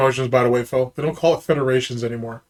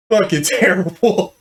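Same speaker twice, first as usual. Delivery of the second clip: laughing mock verdict; 3 semitones higher than usual. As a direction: say "Fucking terrible" again, now breaking into a laugh on it. Repeats it through a laugh.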